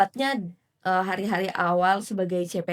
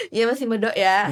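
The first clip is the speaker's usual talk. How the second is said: laughing. Real, not acted. Teasing about thick accent.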